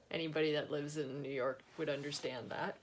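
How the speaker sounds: laughing, whispered aside. Real, not acted. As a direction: murmur it as a private joke.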